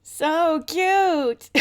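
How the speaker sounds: high, loud delighted squeal; excited squeal. Real, not acted. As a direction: gush over something adorable. Reacting to old episode.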